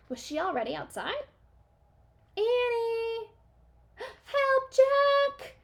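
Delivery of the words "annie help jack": very high, loud frightened cry; loud panicked call for help. A narrator's reading. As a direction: scream for help from far off. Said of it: "came a cry".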